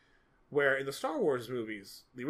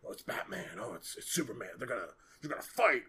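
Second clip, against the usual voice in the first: mock super serious; 3 semitones lower, faster than usual. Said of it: "the super serious".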